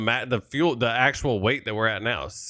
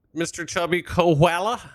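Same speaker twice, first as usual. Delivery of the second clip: Australian accent; 4 semitones higher than usual. Shown as a demonstration. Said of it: "That's my best Australian".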